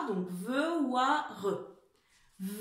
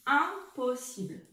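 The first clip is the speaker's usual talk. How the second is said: slow dictation repeat; 3 dB louder than usual. Shown as a demonstration. Teacher repeating Impossible slowly for the class. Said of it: "écrivez-le celui-ci".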